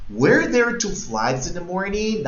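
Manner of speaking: slow question, high on "Were", "morning" left open; question intonation. Shown as a demonstration. Teacher models the question for learners to copy, question intonation. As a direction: ask it slowly, keeping "morning" up. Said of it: "Dame la entonación de pregunta".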